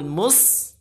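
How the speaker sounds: "mus" with light, thin m and s. Shown as a demonstration. Teacher points out the light letters, "mus" thin. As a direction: keep "mus" light after the heavy syllable.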